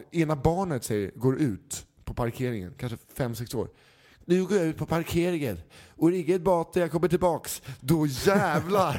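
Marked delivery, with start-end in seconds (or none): 4.2-9.0 put-on child's voice. Kid announces going to parking lot.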